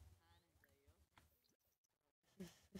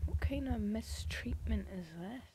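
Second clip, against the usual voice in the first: indignant outburst; 3 semitones higher, 7 dB louder than usual. Real, not acted. Outraged at game abandoning sims.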